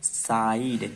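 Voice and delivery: साइड drawn out as "saa-eed"; long I sound. Shown as a demonstration. Teacher shows beginners the joined vowel, long I in साइड. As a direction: join an "aa" to the "ee" slowly in साइड. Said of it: "आ की मात्रा इसमें जुड़ जाती है".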